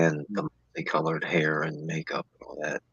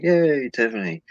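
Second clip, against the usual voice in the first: imitated crowd cheer; 8 semitones higher, 4 dB louder than usual. Host imitating the crowd's cheer for Tiffany, high-pitched. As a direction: cheer like a crowd greeting its favorite. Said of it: "the crowd was like".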